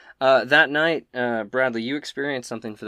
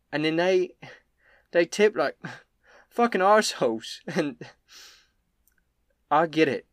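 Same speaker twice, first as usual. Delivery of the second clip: higher, louder barmaid griping about rude customers; Elsa venting; 5 semitones higher, 5 dB louder than usual. Acted. Innkeeper Elsa sharing her own stress with Copper, rising exasperated rant. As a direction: let the annoyance build to the swear.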